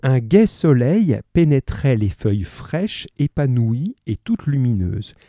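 slow, clear dictation reading; slow reading aloud. Shown as a demonstration. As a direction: read the sentence out slowly for the class. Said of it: "Alors, je la lis".

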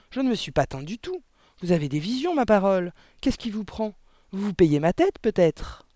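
indignant denial. Acted. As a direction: protest your innocence crossly. Father angrily denies dyeing his hair. (dénégation indignée, ton haussé)

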